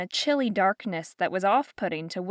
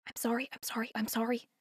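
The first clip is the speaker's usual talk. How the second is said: much softer, hushed, urgent repeats; hissed apology; 2 semitones higher, 10 dB quieter, faster than usual. Acted. Bellamy apologizing to Fiona in the hall, hushed hissing. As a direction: hiss it under your breath as she passes. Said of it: "Bellamy hissed".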